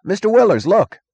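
high, loud alarmed shout; sudden shout. Acted. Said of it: "heard the fireman shout suddenly".

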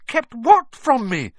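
put-on high, loud, eager boy's question. A narrator's reading. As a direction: jump in, desperate to know. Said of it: "said Harry eagerly".

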